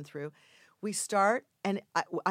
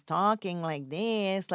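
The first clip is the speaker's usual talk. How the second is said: slow, stretched mock Mexican accent; caricature Mexican accent; 4 dB louder, much slower than usual. Imitating an actor's caricature, mock Mexican accent. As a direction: lightly mimic a cartoonish Mexican accent. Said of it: "doing a sort of a Speedy Gonzalez caricature".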